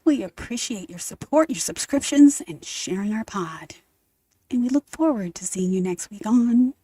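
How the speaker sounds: lightly voiced smooth radio host; a hint of whispery DJ sign-off; trying a jazz DJ voice. Co-host thanking podcast subscribers, in a lightly put-on DJ voice. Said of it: "you're trying it out".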